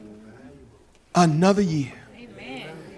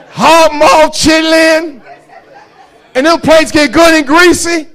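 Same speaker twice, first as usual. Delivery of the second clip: laughing; 8 semitones higher, 10 dB louder than usual. Real, not acted. Laughing at his food list.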